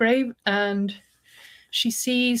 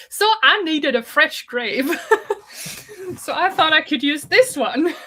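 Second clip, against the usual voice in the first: higher, louder and giggling through it; excited, laughing; 7 semitones higher, 4 dB louder than usual. Retold or imitated. Host voicing Tom explaining the grave he dug up, laughing excitedly. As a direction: gleefully confess while cracking up. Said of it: "very excitedly explains how he desecrated her husband's grave".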